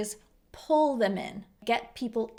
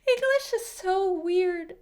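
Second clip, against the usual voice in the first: laughing; 8 semitones higher, slower than usual. Real, not acted. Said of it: "I don't know why it's a rat's ass".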